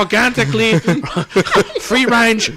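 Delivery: hammed-up Chinese restaurant seller; mock Chinese accent.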